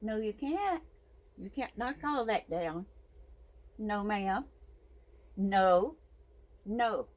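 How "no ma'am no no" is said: sharp, loud scolding no; firm no. Real, not acted. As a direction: stop the pet with one loud no. Scolding the pet.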